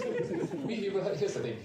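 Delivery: laughing through the words. Real, not acted. Manager laughing off a colleague's tease, laughing. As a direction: giggle as you start.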